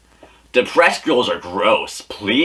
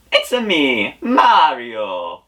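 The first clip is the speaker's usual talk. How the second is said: higher Mario catchphrase take; a passable higher Mario; 4 semitones higher, slower than usual. Retold or imitated. Retrying Mario's catchphrase, a higher Mario voice. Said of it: "that wasn't that bad".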